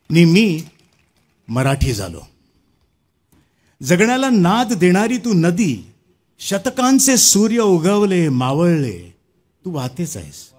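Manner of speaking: emphatic, rhythmic declamation to an audience; poem recitation. Acted. Poet honours his mother tongue Marathi before an audience, poetic recitation. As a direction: recite with swelling phrases and falling closes.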